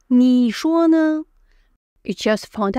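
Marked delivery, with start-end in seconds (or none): 0.1-1.2 slow, drawn-out knowing 你说呢; knowing, obvious tone. Shown as a demonstration. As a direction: say it like everyone knows. Teacher demo, obvious answer.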